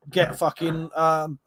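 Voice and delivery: hiccuping mid-sentence; hiccups. Real, not acted. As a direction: talk through the hiccups. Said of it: "sorry, hiccups".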